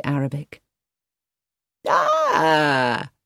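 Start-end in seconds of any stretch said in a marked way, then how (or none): 1.9-3.1 cried out. A narrator's reading. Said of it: "cried Marcus".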